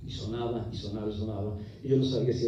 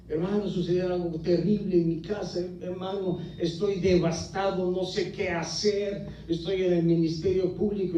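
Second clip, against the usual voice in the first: higher, frantic pleading; desperate cries; 5 semitones higher than usual. Retold or imitated. Brother calling at night begging for help, frantic high cries. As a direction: beg for help as if in a panic. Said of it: "me decía la otra voz".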